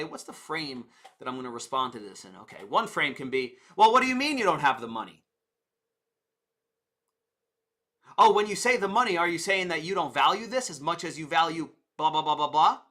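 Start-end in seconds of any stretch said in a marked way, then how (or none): 3.8-12.8 pushy, fast, louder challenge; pushy salesman challenging the objection; abrasive salesman. Retold or imitated. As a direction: push back on the customer hard. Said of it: "you can be a little bit more abrasive".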